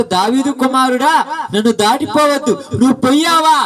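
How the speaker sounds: mild pleading call, voice lifting by the end; retold crying out. Blind man begging the passing Son of David, retold calling out. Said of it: "కేకలు వేస్తున్నాడు".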